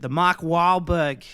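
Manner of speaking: drawn-out, slow Boston accent; exaggerated Boston accent. Shown as a demonstration. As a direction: stretch it in mock Boston accent. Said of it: "the nth degree of it".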